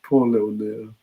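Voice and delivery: cooing with real sympathy, falling at the end; fond sympathy. Real, not acted. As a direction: feel sorry for the little one, fondly. Cooing over a sweet child.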